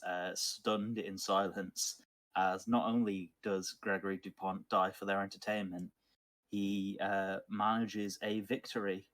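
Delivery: slow, deliberate tabletop narration; measured, halting storyteller delivery; game master's scene setting. Acted. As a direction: set the scene slowly for the players.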